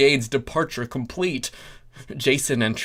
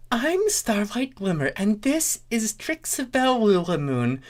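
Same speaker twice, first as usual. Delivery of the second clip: high, sweet pony voice; higher cheerful pony speaking; Starlight Glimmer voice; 8 semitones higher than usual. A narrator's reading. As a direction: lift it up and sing-song.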